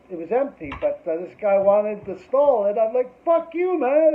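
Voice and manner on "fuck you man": retold brush-off. Telling off the guy wanting stall.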